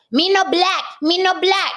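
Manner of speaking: lightly hammed-up accented denial; Godfrey's joke voice. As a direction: play Godfrey doing his accented joke line. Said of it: "his joke".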